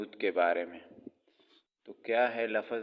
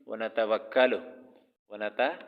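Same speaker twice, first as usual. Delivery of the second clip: व नतवक्कलु said in a hurry; rushed. Shown as a demonstration. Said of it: "पढ़ लेते हैं जल्दी में".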